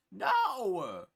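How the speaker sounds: loud, high shouted no; sharp refusal. Retold or imitated. Refusing the pushy party host, a loud, high, flat no. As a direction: slam the door with a no.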